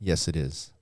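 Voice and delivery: hushed awe. Acted. Hushed awe after gasp.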